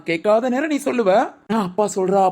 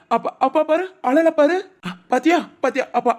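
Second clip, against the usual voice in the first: cheery coaxing; 4 semitones higher than usual. Real, not acted. Father cheering up crying baby. (அழும் குழந்தையை சமாதானப்படுத்தும் உயர்ந்த குரல்)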